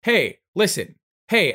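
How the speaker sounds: high, piping attention-grabbing calls; Navi. Retold or imitated. Game helper butts in on the player, insistent high calls. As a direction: imitate a pestering fairy helper, high-pitched. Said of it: "they brought out Navi".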